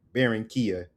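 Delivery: "Barranquilla" as bair-in-KEE-uh in an American accent; American English accent. Shown as a demonstration. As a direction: Americanize "Barranquilla", dropping the rolled r. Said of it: "would say in American or English".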